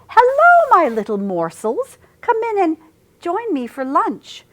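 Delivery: high, loud villainous wolf greeting; sly wolf voice. A narrator's reading. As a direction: purr it like a hungry predator. Wolf greets his prey.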